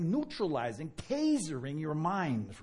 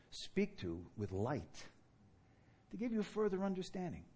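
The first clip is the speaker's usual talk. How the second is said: gentle reassurance; 3 semitones lower, 5 dB quieter than usual. Retold or imitated. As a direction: talk her down gently. Gentle words to angry girl.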